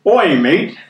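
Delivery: a hint of jokey British accent; lightly mimicked British greeting; mock British accent. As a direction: playfully put on a British accent. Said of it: "try to do the accent".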